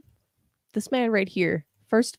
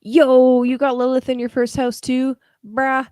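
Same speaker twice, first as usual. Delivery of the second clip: put-on loud Brooklyn accent, yo; 4 semitones higher, 7 dB louder than usual. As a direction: hit it like a Brooklyn guy. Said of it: "you like my Brooklyn accent?".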